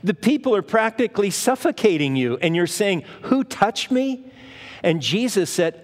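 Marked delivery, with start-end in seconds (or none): 0.0-4.2 disbelieving disciples. Acted. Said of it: "And the disciples said".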